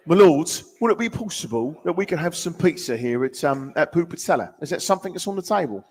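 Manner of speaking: faux-posh British accent, lightly done; a hint of a British aristocrat; British accent, lightly put on for a co-host's request; mock British accent. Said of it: "Just give me some British stuff".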